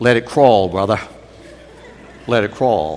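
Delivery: low, mumbled speech. Telling a story, the speaker quotes the person in the back, retelling a mumble. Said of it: "and mumbled".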